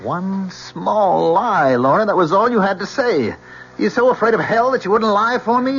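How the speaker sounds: angry lover confronting her for telling the truth; bitter angry reproach. Acted. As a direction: hurl it at her in betrayal. Angry boyfriend confronts Lorna.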